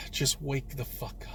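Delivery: hushed whisper, worn out after the outburst; tired, defeated whisper. Real, not acted. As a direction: breathe it under your breath. After shouting, drops to whisper.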